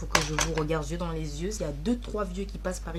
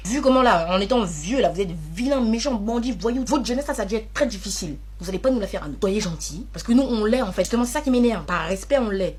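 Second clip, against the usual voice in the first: put-on grumpy old man; 7 dB louder than usual. Ranting at old people.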